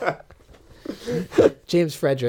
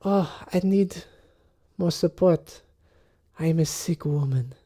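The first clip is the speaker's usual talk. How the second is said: higher, hammed-up sickly lady; a lightly hammed-up invalid; mock frail lady; 4 semitones higher than usual. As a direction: lean on him and play weak. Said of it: "and she says".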